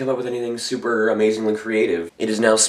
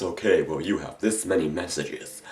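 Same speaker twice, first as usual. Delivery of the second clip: robot voice; 3 semitones lower, 5 dB quieter than usual. Retold or imitated. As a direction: read it like an automated machine. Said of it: "listen to some robot tell us".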